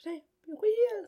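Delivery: breathy, secretive whisper. Pretend. Whispering BeReal.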